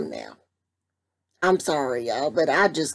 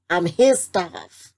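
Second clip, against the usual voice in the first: mock mad; 3 dB louder, slower than usual. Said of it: "I'll say".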